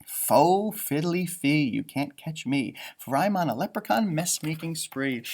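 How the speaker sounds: lightly voiced sly leprechaun taunt; a hint of a sneaky imp. Teacher rereading the leprechaun's taunt, a touch sneaky. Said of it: "sneaky grin".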